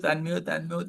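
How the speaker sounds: ordinary talk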